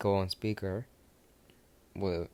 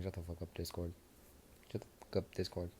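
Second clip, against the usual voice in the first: hushed snap; 2 semitones lower, 10 dB quieter, faster than usual. Acted. Midoriya hushing teasing Discord.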